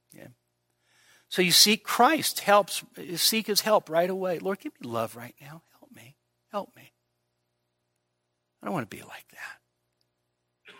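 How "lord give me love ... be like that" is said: very soft, slowing whispered plea; whispered prayer. Acted. Preacher acting out a hushed prayer for love, whispered. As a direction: hush your voice and beg God.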